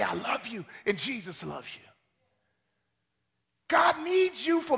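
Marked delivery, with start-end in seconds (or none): 0.0-1.9 quiet, much lower, gentle; soft tender. Retold or imitated. Woman recalling her one message, hushed and gentle. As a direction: say it softly like a lullaby.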